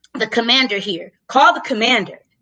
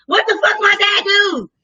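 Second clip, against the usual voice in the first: outraged cry; 8 semitones higher than usual. Retold or imitated. Seeing her dad in handcuffs, outraged. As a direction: cry out in disbelief.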